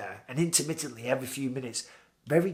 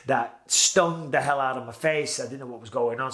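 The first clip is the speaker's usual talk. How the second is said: usual speaking voice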